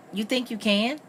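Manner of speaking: high, doubtful question; doubting. A narrator's reading. Bess questioning Richard's offer to help, doubting.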